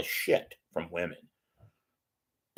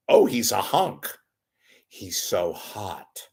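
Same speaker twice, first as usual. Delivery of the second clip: lightly voiced infatuated fan; mock swooning woman; slower than usual. Mocking women swooning over a killer, gushing.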